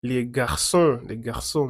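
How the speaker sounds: "les garçons" as lay gar-SON, nasal ending; French pronunciation. Shown as a demonstration. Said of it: "cómo se pronuncia".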